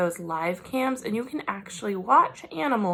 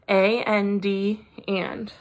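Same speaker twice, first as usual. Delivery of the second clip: spelling letter by letter; 3 dB louder, much slower than usual. Shown as a demonstration. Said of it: "spelling letters aloud".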